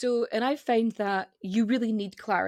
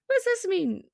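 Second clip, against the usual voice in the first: confused voice; 11 semitones higher than usual. Retold or imitated. Mimicking confused viewers.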